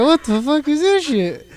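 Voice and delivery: high, strained cry of disbelief; mock outrage. Shocked she wants payment.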